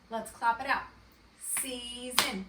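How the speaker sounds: Season split into two clapped beats, sea-son; clapped syllables. Shown as a demonstration. Teacher to kindergartners, clapping syllables of Season.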